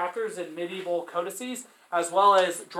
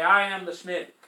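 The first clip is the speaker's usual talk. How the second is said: mock grand; 6 dB louder than usual. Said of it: "I'd say".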